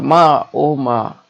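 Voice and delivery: slow, drawn-out mock cry for mother; mock loud cry. Mohan crying out to his mother, mildly acted. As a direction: stretch out a mild, acted wail. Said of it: "जोर से चिल्लाता है".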